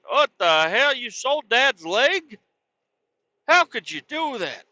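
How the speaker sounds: high, outraged mock brother; a hint of a freaked-out brother. Brother upset the card was sold, high outraged mock voice.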